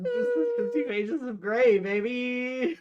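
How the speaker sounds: teasing. Real, not acted. Teasing sing-song.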